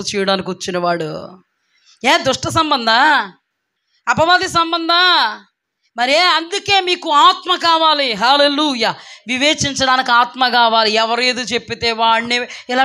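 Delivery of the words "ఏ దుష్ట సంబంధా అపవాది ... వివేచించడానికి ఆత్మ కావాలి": raised, insistent preaching voice; forceful pulpit challenge. Real, not acted. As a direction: preach it out with stretched questions.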